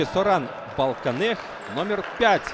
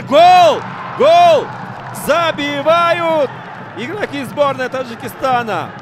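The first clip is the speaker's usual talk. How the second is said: much higher, much louder yelling; goal call; 7 semitones higher, 8 dB louder, slower than usual. Real, not acted. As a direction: scream the goal to the crowd. Tajikistan scores.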